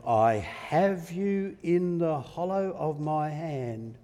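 loud, drawn-out proclamation; powerful assurance. Acted. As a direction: declare it slowly and firmly, swelling in force. God assuring Elijah with force.

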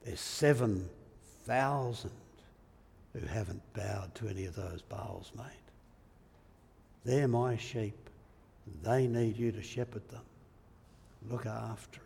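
softly reassuring, with pauses between phrases; gentle, unhurried voice of God; gentle rebuke. Acted. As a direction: correct him tenderly, easing off at the ends. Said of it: "he very gently says".

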